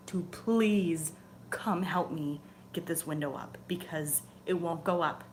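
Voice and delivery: a hint of earnest pleading prayer. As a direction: ask the angel for help, gently begging. Prays to archangel for help.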